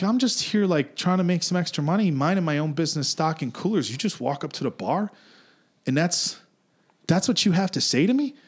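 high, aggrieved retelling of a complaint; indignant protest. Retold or imitated. Acts out protesting to rude customer.

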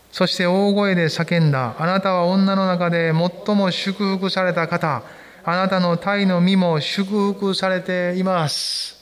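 slow, measured Bible reading to the congregation; scripture reading. Acted. Pastor reading Luke aloud to the congregation, slow and measured. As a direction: read it aloud with the church.

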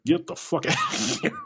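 very high, incredulous squeal; acted high-pitched astonishment breaking into laughter; laughing disbelief. Disbelief at stranger's stated height.

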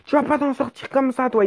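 lightly acted chase threat; threatening policeman. Policeman running at the fleeing rider, mock threatening. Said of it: "il commence à courir vers moi en mode".

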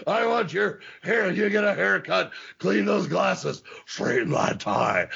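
a hint of a drill instructor inspecting a recruit; Sergeant Slaughter impression. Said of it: "Slaughter impersonation".

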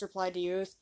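usual speaking voice

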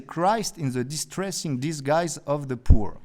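English phrase said with a French accent; lightly French-accented English quote. Shown as a demonstration. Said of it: "Vous appréciez mon accent".

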